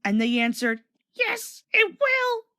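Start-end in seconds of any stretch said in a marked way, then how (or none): 1.1-2.4 very high, slow creaking moan; sad groany creak. A narrator's reading. Beaten trucks answering Thomas sadly, creaky and groany. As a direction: creak it out miserably. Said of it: "in a sad, groany, creaky sort of voice".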